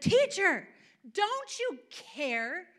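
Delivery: loud, high desperate appeal; yelling disciples. Acted. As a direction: cry out to the teacher, dragging out the plea. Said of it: "they're yelling".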